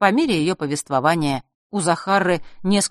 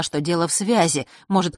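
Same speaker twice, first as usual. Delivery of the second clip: usual speaking voice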